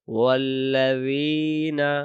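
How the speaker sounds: loud, very slow chanted recitation; slow Quran recitation. Shown as a demonstration. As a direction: recite it drawn out like tajweed practice. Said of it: "আবার".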